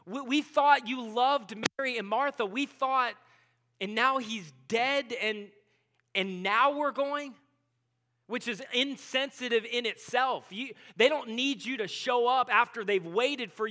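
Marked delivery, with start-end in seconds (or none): 0.0-7.3 slow, louder, each line pushed out in disbelief; hurt protest. Retold or imitated. Disciples protesting to Jesus, slow, louder and hurt. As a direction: accuse him with hurt, building. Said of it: "his disciples are thinking".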